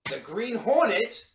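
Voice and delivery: loud, drawn-out cry of disbelief; shocked cry. Acted. Intruding secretary recognizes the masked man, shocked cry. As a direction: cry the name slowly, voice leaping up. Visitor recognizes the Green Hornet.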